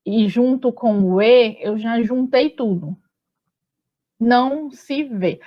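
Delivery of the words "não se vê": "Não se vê" slowed, one syllable at a time; sílaba por sílaba. Shown as a demonstration. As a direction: scan "Não se vê" slowly up to the stressed vê. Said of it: "a gente confere assim". ("Não se vê" escandido devagar, sílaba por sílaba)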